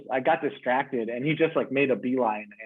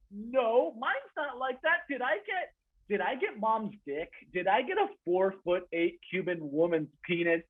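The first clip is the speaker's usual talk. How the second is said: panicked worry; 8 semitones higher, 4 dB quieter than usual. Retold or imitated. Panicked self-questioning.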